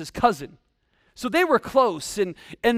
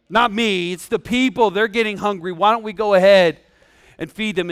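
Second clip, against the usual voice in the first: insistent excuse, pinning it on others; mock-defensive disciple, building louder at the end; hasty deflection; 5 dB louder than usual. Disciple assuring Jesus it's the people who are hungry, defensive.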